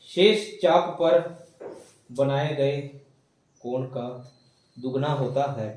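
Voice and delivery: slow phrase-by-phrase dictation with pauses. Acted. Teacher dictating to the class, paused chunks. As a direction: give it piece by piece for note-taking.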